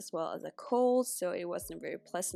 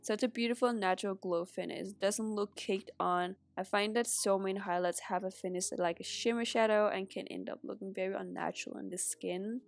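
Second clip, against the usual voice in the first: stuffy nose from a cold; blocked nose. Real, not acted. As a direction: talk with a congested nose. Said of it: "so I sound very congested".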